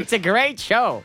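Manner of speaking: put-on loud, high, slow old British comic; hammed-up fifties variety cheer; music hall comedian. The speaker plugging his show, loud high music-hall comedian impression. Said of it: "like a sort of British music hall comedian".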